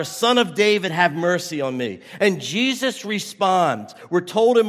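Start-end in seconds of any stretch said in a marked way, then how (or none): 0.0-2.0 a touch louder, pleading call; mild mock yell. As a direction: call out again, a little louder. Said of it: "he yelled louder and louder".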